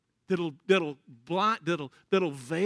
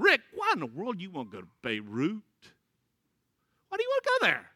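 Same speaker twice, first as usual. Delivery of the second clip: worried dad; 2 semitones lower, faster than usual. Retold or imitated.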